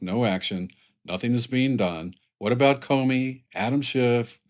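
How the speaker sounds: lightly voiced dictator reading out complaints; dictator impersonation. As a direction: read it as a mildly put-on dictator. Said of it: "That's my dictator impersonation voice".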